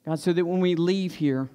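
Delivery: earnest, measured prayer voice; public prayer. Real, not acted. Pastor leading the congregation in prayer before the sermon, earnest and subdued. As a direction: pray aloud, evenly, pausing between petitions.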